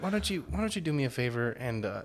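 high, loud, laughing scolding; mock stern doctor. Doctor scolds patient about soda, laughing mock-scold. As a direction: play the exasperated doctor through laughs. Doctor voiced in retold story.

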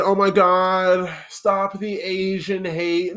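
slow, drawn-out mock protest; mock outraged listener. Mocking listeners who complain, slow sarcastic whine. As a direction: parody an indignant listener, slowly. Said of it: "y'all start popping off and saying".

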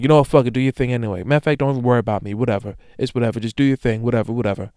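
waving it off with a rushed, bored whatever; imitating a dismissive text; mock dismissive. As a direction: brush them off like it doesn't matter. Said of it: "you just dismiss them like".

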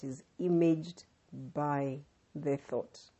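slow, measured, deliberate quote; slow quote reading. Acted. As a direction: read it out slowly and gravely. Reading Wattles quote slowly.

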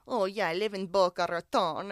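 playful mock Russian accent; put-on Russian accent. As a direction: imitate the Russian man, half laughing. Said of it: "That's that's my Russian".

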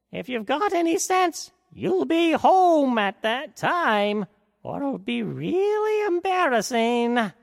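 put-on high, slow, creaky old fairy warning; weary old godmother drawing out the warning; tired fairy godmother. A narrator's reading. Fairy godmother warning Cinderella about midnight, high and slow. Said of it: "the fairy godmother said".

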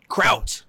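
kraut, clearly said with a hard k; corrected word. Shown as a demonstration. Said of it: "There you go. Good. Much better".

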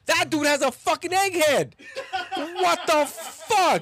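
high-pitched incredulous outburst; real astonishment. Real, not acted. Host seeing an odd-shaped head, astonished. Reacting to a startling picture.

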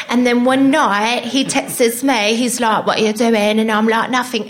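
put-on a light take on a chatty London girl, gushing; lightly voiced London girl spilling the gossip; imitating the girl. Retelling the model's call to the wronged girlfriend, lightly imitated chatty London girl. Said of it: "that's how she talked".

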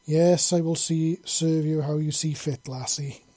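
slow, reluctant grudging yes; begrudging. Acted. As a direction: drag the words out unwillingly. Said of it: "he said begrudgingly".

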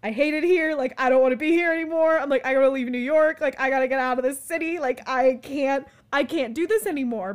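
panicking friend vowing to leave New York; retold panic. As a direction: blurt it out in a rush of panic. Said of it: "break into a panic".

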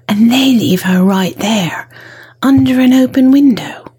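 a lightly voiced baddie plotting a kidnapping; scheming villain.

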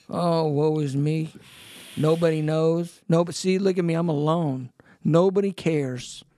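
a hint of a whiny self-pitying voice, lightly done; mock self-pity. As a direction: lightly parody someone wallowing in self-pity. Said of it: "going to the old spirit of self-pity".

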